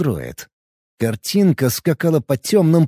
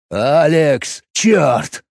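mournful tone; much slower than usual. Acted. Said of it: "таким траурным тоном".

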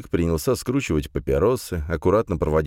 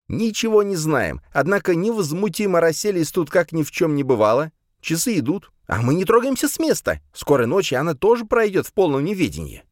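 heated rant; 13 semitones higher, 3 dB louder than usual. Acted. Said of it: "всё больше распаляясь".

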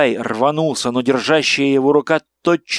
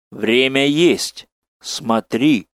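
slow inhuman voice; much slower than usual. Acted. Monstrous figure speaks.

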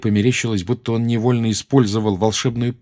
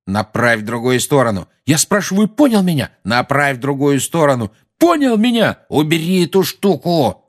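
shouting; 6 semitones higher, 5 dB louder than usual. Acted. Harry and Dudley shouting at each other.

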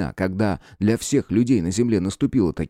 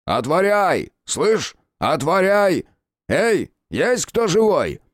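commanding shout; 9 semitones higher, much slower than usual. Acted. Official shouting through the fire door, a booming command. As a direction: bellow it through a door like a man used to orders. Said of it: "покрикивал из-за неё зычным командным голосом".

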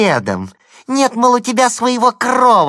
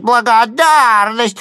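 higher, slow, loud jeering cry; mock shout again; 10 semitones higher, 8 dB louder, slower than usual. A narrator's reading. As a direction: yell it once more, mocking. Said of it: "кричит".

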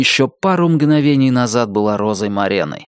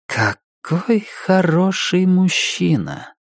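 thoughtful; 8 semitones higher, much slower than usual. Acted. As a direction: muse on it slowly. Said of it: "задумчиво проговорила". (задумчиво)

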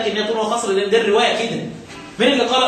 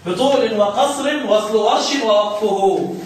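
slow measured recitation; slow teaching recital; recited verse; slower than usual. Shown as a demonstration. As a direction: drag each word of the line.

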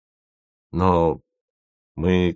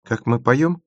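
hopeful question, pitched up and rising; 6 semitones higher than usual. Acted. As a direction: ask hopefully, fishing for praise. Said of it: "с надеждой спросила Маша". (с надеждой)

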